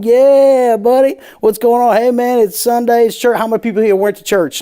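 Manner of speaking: high, loud, hammed-up Southern yokel greeting; hacky Southern accent. Comedian on stage to Southern crowd, hammed-up Southern accent. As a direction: play the Southern good old boy to win the room. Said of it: "doing the hackiest Southern bullshit".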